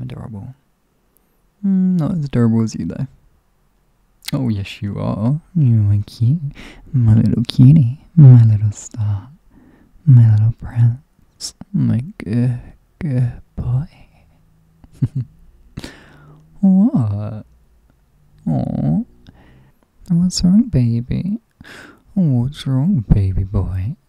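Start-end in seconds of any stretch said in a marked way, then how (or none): 4.3-13.9 put-on louder, cooing baby talk. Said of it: "when a baby talk". 20.1-23.9 mock-concerned cooing, pitched up; baby talk. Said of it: "when a baby talk".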